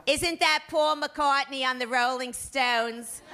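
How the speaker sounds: slow, puzzled mother; mother voiced slowly. Mother in the Oldsmobile asking her daughter, slow and puzzled. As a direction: ask it slowly like a clueless mom. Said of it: "she says".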